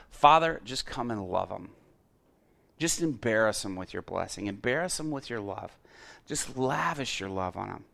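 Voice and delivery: prayer opening firmly, then softening; simple prayer. Retold or imitated. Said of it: "the prayer was just simply this".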